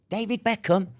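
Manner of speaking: "David Beckham?" in a sudden high, delighted pitch; excited guard. Retold or imitated. Guard perks up at the name, high delighted cry. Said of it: "And the guy's going".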